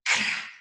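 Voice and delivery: Cra com o C e o R bem marcados; sílaba demonstrada. Shown as a demonstration. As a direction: articule Cra lenta e claramente. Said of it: "Ó o som do C". (Cra bem articulado)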